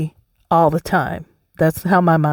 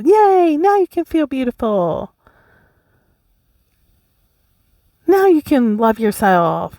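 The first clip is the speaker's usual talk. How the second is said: mock cheering scale; slower than usual.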